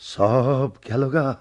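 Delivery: slow, lost lament; despairing. Acted. Father left alone, slow and despairing. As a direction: let it sink in slowly.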